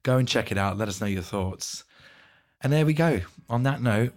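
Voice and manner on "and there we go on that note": croaky voice. Real, not acted. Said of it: "with my croaky voice".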